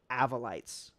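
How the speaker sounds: "Avolites" as AV-uh-lites, falling; short-a pronunciation. Shown as a demonstration. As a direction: settle on "Avolites" with a short AV opening. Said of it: "It's pronounced".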